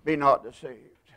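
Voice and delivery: a hushed "Be not deceived"; soft echo. Acted. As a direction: drop the voice and let "not" sink in. Repeated quietly after the warning.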